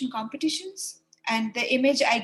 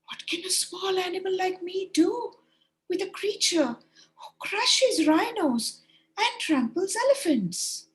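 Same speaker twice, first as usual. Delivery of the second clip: frightened crying hare; 8 semitones higher than usual. Acted. Frightened hare wails to the boasting caterpillar, high. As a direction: plead like a tiny scared animal.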